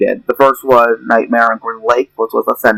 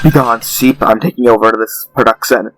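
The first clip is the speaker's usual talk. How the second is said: Nora Vanguard takeover. Acted. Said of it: "let Nora Vanguard take what".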